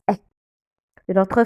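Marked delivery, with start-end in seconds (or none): 0.1-0.1 E said as short, closed "é". Shown as a demonstration. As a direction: say E like the end of "blé". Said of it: "on le prononce E". (E prononcé « é » fermé)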